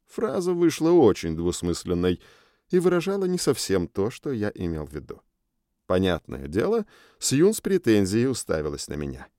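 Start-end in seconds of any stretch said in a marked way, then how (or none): none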